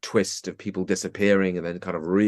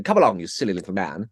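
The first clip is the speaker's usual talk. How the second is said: Richard Murdoch impression; faster than usual. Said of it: "like that".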